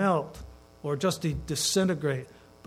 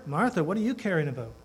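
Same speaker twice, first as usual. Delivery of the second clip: ordinary talk, nothing marked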